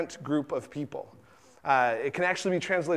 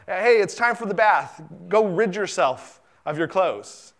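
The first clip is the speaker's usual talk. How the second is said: mock parent to toddler; 2 semitones higher than usual. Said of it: "They go".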